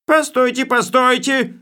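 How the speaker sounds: high, loud shout of stop; yelling. Acted. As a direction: bellow to halt everyone. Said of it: "заорал он".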